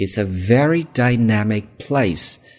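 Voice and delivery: "very" stressed, very drawn out, high-pitched. English lesson on emphasis in a sentence: stretched, higher 'very'. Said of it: "Dynamic very 强调一下，强调的时候拖长音调读高一些。".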